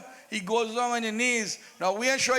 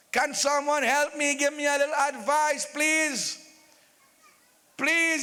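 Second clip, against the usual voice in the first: mildly raised, insistent plea; begging. Acted. King appealing to the crowd for advice, begging. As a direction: plead for help, stretching each please. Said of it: "he starts to beg".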